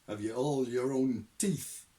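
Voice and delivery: slow, loud gruff questioning; old sergeant grilling a recruit by phone; gruff interrogator. Acted. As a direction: bark it like a drill sergeant. Shadwell interrogating.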